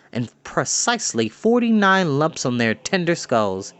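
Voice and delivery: ordinary delivery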